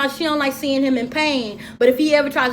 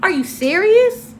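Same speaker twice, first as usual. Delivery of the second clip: slow, high, louder disbelief; incredulous; 7 semitones higher, 4 dB louder, slower than usual. Real, not acted. Vlogger reacting to A one's answer, incredulous and slow. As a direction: drag out the disbelief.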